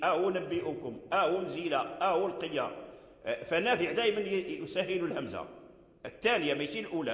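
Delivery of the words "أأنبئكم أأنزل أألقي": "أأنبئكم", "أأنزل", "أألقي" with the second hamza gliding toward u; second hamza softened. Shown as a demonstration. Teacher showing softened hamza in "أأنبئكم", "أأنزل", "أألقي", a gliding to u. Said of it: "كذلك التسهيل".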